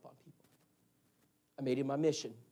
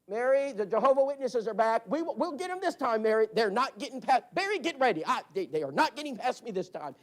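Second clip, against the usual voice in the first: riled-up husband; 5 semitones higher, 4 dB louder than usual. Retold or imitated. Husband spots visitors at window.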